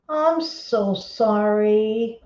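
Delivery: sincere, slow apology; sorry. Real, not acted. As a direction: gasp then slow, drawn-out apology. Apologising to the viewer.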